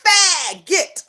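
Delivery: "faggot" drawn out on its first syllable, imitating her; exaggerated quoted stress on "faggot"; heavy emphasis. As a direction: stretch and punch "faggot" as she did. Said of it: "she put some emphasis in that".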